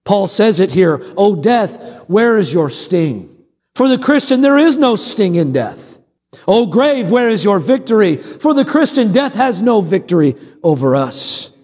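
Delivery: preaching. Real, not acted. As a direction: proclaim it emphatically to the congregation. Preaches on scripture.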